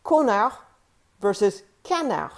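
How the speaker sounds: 'connard'는 on, 'canard'는 an 비음으로; 두 단어의 비음 차이를 살려서; on versus an contrast. Shown as a demonstration. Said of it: "or asshole versus duck".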